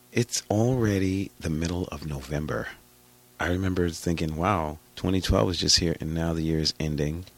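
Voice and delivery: hoarse from a bug; husky raspy voice. Real, not acted. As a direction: talk through a raspy throat. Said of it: "husky, raspy voice".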